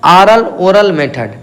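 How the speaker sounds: ऑरल ओरल मेथड drawn out slowly; slow, careful dictation. Shown as a demonstration. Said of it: "इसका और क्या नाम है".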